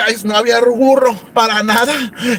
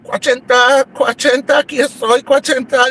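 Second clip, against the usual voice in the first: ghostly Nachita; 5 semitones higher than usual. Retold or imitated. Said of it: "Nachita la mandé y decía así".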